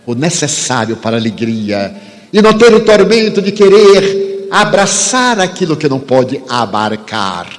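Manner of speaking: measured, fervent preaching with long pauses; sermon delivery. Acted. Preacher exhorting the audience to faith, fervent.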